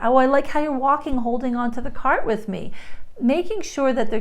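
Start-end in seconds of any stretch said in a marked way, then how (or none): 0.0-2.7 encouraging praise, lightly raised; gentle parent praise; praising parent voice. Shown as a demonstration. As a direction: tell the child you like what they're doing. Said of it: "Little things like that".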